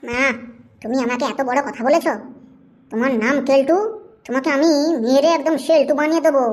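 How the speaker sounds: mock-threatening scolding; angry. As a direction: threaten him in a domestic huff. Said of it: "তুমি এত রাগ করছো কেন?".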